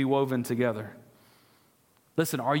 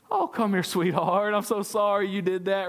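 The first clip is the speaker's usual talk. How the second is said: comforting mama; 4 semitones higher than usual. Retold or imitated. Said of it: "What's a mama's reaction?".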